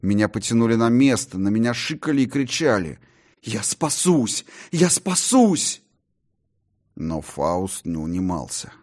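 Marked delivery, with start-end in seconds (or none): 3.4-5.8 slow, then much higher and louder; rising shout. Acted. John shouts defiantly over the hissing crowd, climbing. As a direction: cry it out again, climbing. Shouted while dragged back.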